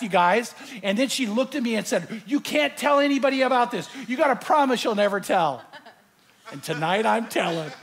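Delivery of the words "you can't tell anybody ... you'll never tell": higher-pitched, insistent quote; urgent pleading. Retold or imitated. Mortician's daughter begs him to keep it secret, urgent plea.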